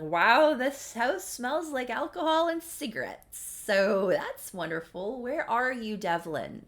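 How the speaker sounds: loud, exasperated retold call; mock yell, loud and drawn out; yelling for someone. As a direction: call out through the house, annoyed. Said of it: "She's yelling for him".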